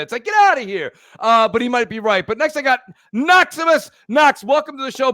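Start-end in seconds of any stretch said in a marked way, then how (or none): 0.2-0.9 "Get outta here" tossed off at normal speed; quick throwaway Seinfeld line; Seinfeld bit, quick. Retold or imitated. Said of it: "it's just Seinfeld bit".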